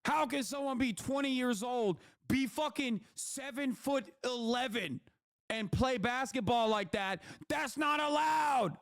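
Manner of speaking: mock a sore fan; hint of a whining crybaby; whiny complainer impression. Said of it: "That's what you sound like".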